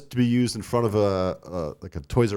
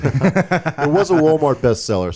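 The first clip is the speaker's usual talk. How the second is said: laughing; 6 semitones higher, 7 dB louder than usual. Real, not acted. Laughs while saying it.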